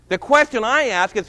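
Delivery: ordinary talk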